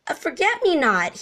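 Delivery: high, bright excited gasp; a little elephant thrilled by his find; breathless excited discovery; gasped excitedly. A narrator's reading. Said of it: "he gasped excitedly".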